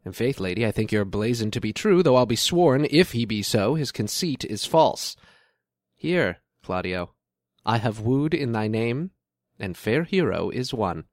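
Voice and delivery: measured stage delivery, building to the blessing; Shakespearean prince. Acted. Prince tells Claudio that Hero is won, theatrical. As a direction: declaim it like a lord on stage.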